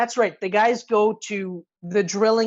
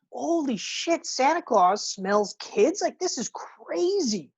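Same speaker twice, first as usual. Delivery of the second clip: hushed amazement; 3 semitones higher, 4 dB quieter, slower than usual. Retold or imitated. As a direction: marvel under your breath. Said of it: "And I was like".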